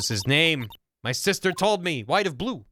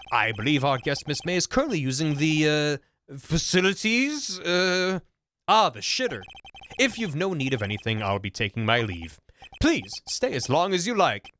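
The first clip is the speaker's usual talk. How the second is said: a hint of a prim hotel bellboy, polite and proper; stuffy bellboy voice. Bellboy politely greeting the lawyer in the hotel room, prim and formal. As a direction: play the bellboy with stiff courtesy.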